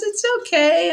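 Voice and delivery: high, soothing mom voice; gently voiced comforting mom, lifted high; mom reassuring. Mom comforting a child in retelling.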